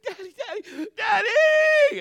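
hammed-up tearful wail rising to a scream; screaming and crying. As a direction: scream for Daddy like a hurt kid. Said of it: "she's screaming and crying".

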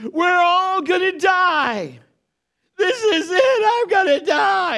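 loud, high, drawn-out wail of terror; panicked screaming. Retold or imitated. Passenger screaming that the plane will crash, panicked. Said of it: "he starts screaming".

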